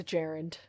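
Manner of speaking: gerund said as JERR-und; correct gerund. Shown as a demonstration. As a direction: stress the first syllable of gerund, JERR-und. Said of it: "It's pronounced gerund".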